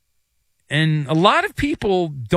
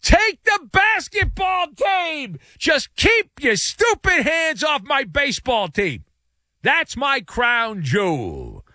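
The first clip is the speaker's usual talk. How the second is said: high, slow, hammed-up panicked plea; mock desperate scream; 10 semitones higher, slower than usual. Owner imagined screaming at the feds, hammed-up high pleading shout. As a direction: beg like a man drowning, hands off my team. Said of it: "he's screaming at the top of his lungs".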